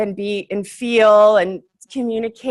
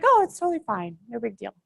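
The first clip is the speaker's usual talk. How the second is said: forgiving reassurance; 7 dB quieter, faster than usual. Retold or imitated. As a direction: wave off an apology lightly. Acting out her forgiving reply.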